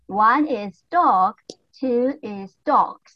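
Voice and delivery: slow, clear dog and dogs; slow teaching model. Shown as a demonstration. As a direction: lay out one is dog, two is dogs for the class. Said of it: "teacher models singular and plural".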